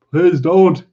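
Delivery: high, loud panicked plea; begging. Acted. Simple man begs screaming woman, panicked plea. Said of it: "he begged".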